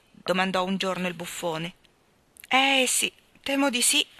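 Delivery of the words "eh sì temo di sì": melancholy. Acted. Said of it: "rispose il re malinconicamente".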